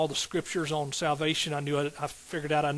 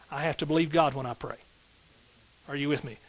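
usual speaking voice

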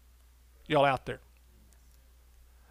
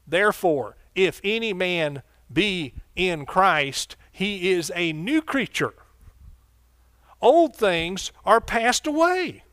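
slow, weighty preaching of the verse, rising and louder at the end; slow scripture reading; 3 semitones higher, 3 dB louder, slower than usual. Acted. Preacher reading the verse to the congregation, slow and weighty. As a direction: lean into each word of the scripture.

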